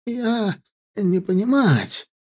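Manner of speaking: high, halting broken Russian; pleading captive. A narrator's reading. Captive pleading he doesn't understand Russian. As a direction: plead ignorance desperately. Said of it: "взмолился он".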